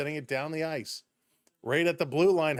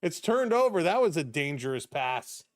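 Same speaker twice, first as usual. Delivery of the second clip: excited goal call; 4 semitones higher than usual. Real, not acted. Live goal call in hockey stream.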